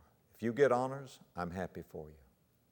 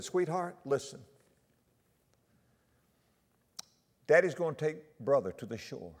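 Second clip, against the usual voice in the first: father soothing a frightened daughter; calm reassurance; 6 semitones higher, 4 dB louder than usual. Retold or imitated. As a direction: keep her calm, gently. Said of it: "He tried not to panic her".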